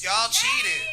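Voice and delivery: shouted out high and loud, "cheated" stretched; accusing shout. Real, not acted. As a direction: call the crowd out for cheating, full voice. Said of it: "should I just be brutally honest".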